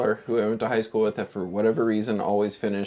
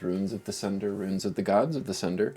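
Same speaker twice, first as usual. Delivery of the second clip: slow, measured recap with long pauses; game master narration; slower than usual. A narrator's reading. Game master recapping last session to players, slow narration. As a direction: set the scene slowly, piece by piece.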